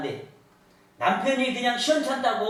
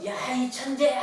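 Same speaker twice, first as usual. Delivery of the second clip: mild mock yell with stretched vowels; demonstrated calling out; 2 semitones higher than usual. Mother shows son what to call to mountain, mock yell. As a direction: act out a call to the hills, holding back volume. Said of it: "하고 외쳐보려".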